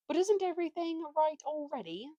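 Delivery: puzzled donkey. A narrator's reading.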